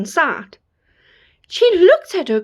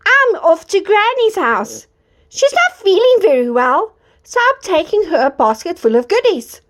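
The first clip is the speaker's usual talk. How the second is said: put-on little girl voice; 4 semitones higher than usual. Girl answers the wolf.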